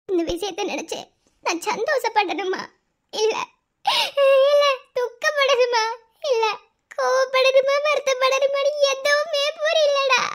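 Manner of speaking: slow, tearful questioning; lost between joy and grief; crying, torn. Acted. Confused bride near tears. (அழுதபடி மெதுவான குழப்பக் குரல்)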